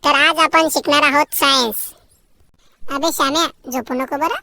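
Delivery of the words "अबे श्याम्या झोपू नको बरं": hushed classroom aside. Acted. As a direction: keep it down so the teacher won't hear.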